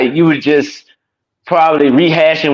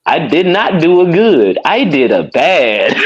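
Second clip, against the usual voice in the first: mock dumb voice; 4 semitones higher than usual. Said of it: "I'm like".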